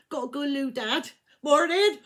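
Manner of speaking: light fake casual voice, laughing at the end; chirpy cover-up with a laugh; mock innocent. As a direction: breeze past dad like nothing happened. Faking sleepiness to dad.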